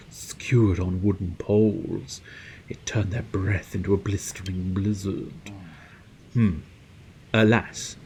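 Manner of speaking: lightly voiced formal storyteller; genteel game character. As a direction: recount it with measured theatrical regret. Reads game character's reminiscence.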